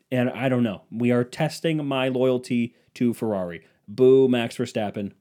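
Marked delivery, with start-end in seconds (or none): 3.9-5.1 mock boo, slow and drawn out. Real, not acted. Fan booing rival driver, drawn out. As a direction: boo him like a fan in the stands. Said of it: "booing a rival driver".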